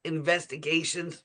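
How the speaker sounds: words squeezed out while choking. Real, not acted. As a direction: fight a choke in the throat. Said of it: "excuse me, I'm choking".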